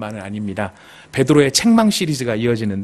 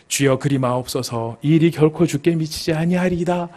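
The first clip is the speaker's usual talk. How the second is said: mild, gentle plea. Acted. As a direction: make the protest sound meek. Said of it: "굉장히 온화한 말인 것 같지만". (온화하게 간청하듯)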